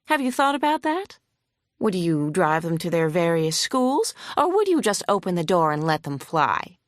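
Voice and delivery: lightly voiced hostile lawyer. Opposing lawyer grilling the vet on the stand, mildly huffy. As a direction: press the witness with mild scorn.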